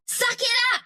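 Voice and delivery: high, sudden taunt; taunting yell. Acted. Fighter taunts a hurt foe, high taunting yell.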